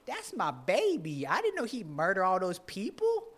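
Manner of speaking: high, laughing granny voice; doting grandma. Retold or imitated. Grandma excusing her murderous grandson, high doting voice. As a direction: play the blind-loving grandma. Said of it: "and the grandma".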